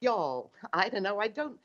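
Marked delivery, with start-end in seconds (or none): 0.0-0.5 attempted American drawl on "y'all"; half-hearted American accent. Shown as a demonstration. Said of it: "do a decent American".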